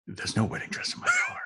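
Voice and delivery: high, fast, frightened squeal; panicked shriek. Retold or imitated. Friend denies dress, panicked.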